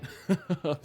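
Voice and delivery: short, high, sheepish laugh; embarrassed laugh. Real, not acted. Laughing to viewers about rarely uploading, sheepish laugh.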